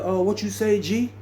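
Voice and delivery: high-pitched voice imitating someone far off; faint distant voice. Valdosta answering Tony from far down the dorm, faint distant call. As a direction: call back as if from down the hall. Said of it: "I could hear him real faint".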